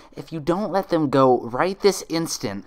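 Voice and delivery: loud high threat; threatening. Acted. Twilight threatening the imposter, angry. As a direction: stand tall and threaten.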